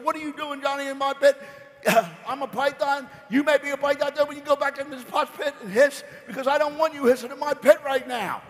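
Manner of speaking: mother scolding Johnny for hissing in her pit, high and loud. Acted.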